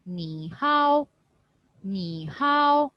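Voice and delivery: "ni hao" with hao stretched and lifted high; stretched tone demo. Shown as a demonstration. Teacher repeats words to show tones, stretched demo. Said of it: "when I read these two words".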